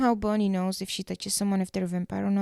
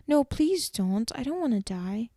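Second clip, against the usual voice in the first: lightly acted plea, pitched up at first; beg, with a touch of fear; mock pleading; 3 semitones higher than usual. Caroline begging Damon not to kill her, mildly pleading.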